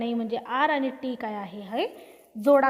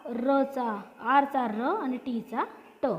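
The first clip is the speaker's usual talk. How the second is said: slow sound-by-sound; much slower than usual. Shown as a demonstration. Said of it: "इथे एचा उच्चार आ".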